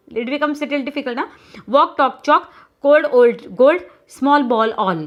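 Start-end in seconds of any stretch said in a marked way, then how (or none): 1.8-5.0 quick, loud run of rhyming words; faster reading. Shown as a demonstration. Teacher drilling pupils to say rhyming words faster, quick reading. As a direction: reel off the word list briskly and loudly. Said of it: "in this way you have to say it faster".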